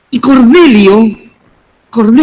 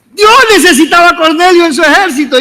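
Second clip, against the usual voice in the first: voice breaking; 7 semitones higher, faster than usual. Real, not acted. Preacher's voice breaks mid-sermon.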